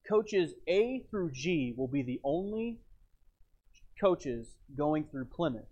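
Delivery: slow British conductor announcement; British accent. Retold or imitated. Conductor announcing coaches to passengers, British accent. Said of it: "with his British accent".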